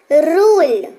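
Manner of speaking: रूल with a long, leaned-on oo; stressed long u. Shown as a demonstration. Teacher stresses रूल so students copy it. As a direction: lean into the oo of रूल. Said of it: "यहाँ पे थोड़ा जोर डालेंगे".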